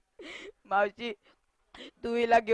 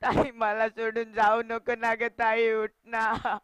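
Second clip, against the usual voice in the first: put-on crying boy begging his sister; drawn-out, sobbing plea to wake up; tearful pleading. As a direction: plead through tears. Boy begs dead sister to wake.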